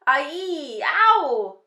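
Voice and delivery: very loud, high drawn-out howl; roar. A narrator's reading. Narrator voicing the sleeping giant in a nightmare, loud roar. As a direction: wail it out, swelling to a roar. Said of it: "roared the flesh lump eater".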